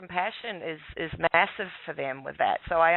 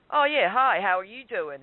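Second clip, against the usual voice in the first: higher, mildly hammed-up friendly greeting; friendly cops; 5 semitones higher, 3 dB louder than usual. Cops greeting his son, imitated friendliness. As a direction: imitate an easy, chummy hello. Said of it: "really couldn't be friendlier".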